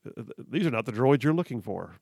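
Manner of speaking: Jedi mind trick. Retold or imitated. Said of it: "the thing from Star Wars".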